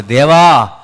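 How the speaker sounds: broken prayer. Acted. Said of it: "ఒక స్వరం రావాలి".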